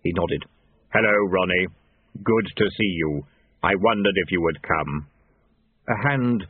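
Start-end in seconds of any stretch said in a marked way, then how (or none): 0.9-5.1 low, measured greeting from Death; deep and level, an old acquaintance; low steady voice greeting an old rival. A narrator's reading.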